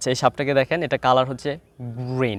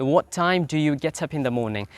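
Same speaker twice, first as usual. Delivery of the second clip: slow model question; much slower than usual. Shown as a demonstration. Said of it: "প্রশ্নগুলো একদম মাথায় থাকতে হবে".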